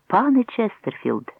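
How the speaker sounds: slow, high-pitched hail; calling out. A narrator's reading. Woman running up to Jonathan at the station, calling out. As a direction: hail him by name, drawn out. Woman runs up hailing him.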